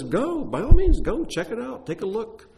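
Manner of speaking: hammed-up, high-pitched encouragement; over-willing go-ahead. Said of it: "When he says".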